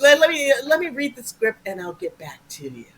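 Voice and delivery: casual, offhand tone; pretending he's unimpressed; fake nonchalant. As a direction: play it cool. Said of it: "I'm doing that bullshit".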